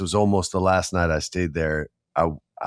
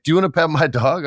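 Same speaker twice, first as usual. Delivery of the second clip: high, quick offer; chirpy neighbour offering his dog; friendly dog owner; 7 semitones higher, faster than usual. Retold or imitated. Stranger in Brooklyn offering his dog, high and quick. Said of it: "legit was like".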